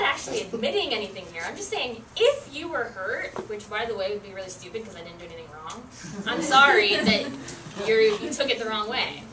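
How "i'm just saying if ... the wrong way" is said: fake apology. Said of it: "I used to love apologizing this way".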